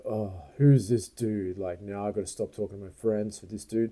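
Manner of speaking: lightly mimicked passive-aggressive grumble; passive-aggressive attitude. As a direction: imitate put-out staff resenting the customer. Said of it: "passive aggressive, eye rolly stuff".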